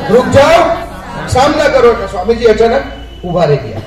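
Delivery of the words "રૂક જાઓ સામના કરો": shouted call again. Retold or imitated. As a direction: call out to make him stand and face them. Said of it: "શું કીધું?".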